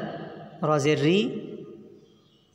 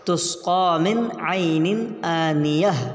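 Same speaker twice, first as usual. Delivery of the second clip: slow recitation with long vowels; Quran recitation; slower than usual. Shown as a demonstration. Teacher reading the spelled verse whole, slow recitation. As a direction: recite slowly, letting the last word end on h.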